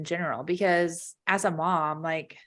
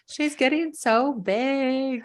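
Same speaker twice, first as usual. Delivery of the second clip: slow, higher, whimpering mock lament; mock weepy whine; 6 semitones higher, much slower than usual. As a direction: drag it out like a teary mom. Mom tells husband, tearful.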